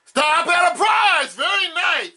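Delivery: big game show host call; booming prize announcer. Acted. Host hits a prize spin.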